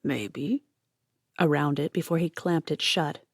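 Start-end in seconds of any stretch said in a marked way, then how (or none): 0.0-0.6 mumbled through a mouthful; mouth full. A narrator's reading. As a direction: talk around a bite of food.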